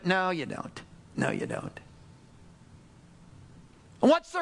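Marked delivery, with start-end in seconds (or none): 1.2-1.8 breathy whispered reply; hushed, almost voiceless. Acted. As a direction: drop to a whisper.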